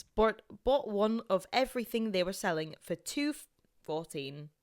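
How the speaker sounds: story read in an attempted Scottish accent. Reading a friend's story on request, Scottish accent. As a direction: read it out as a Scot. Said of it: "uh, Scotland's".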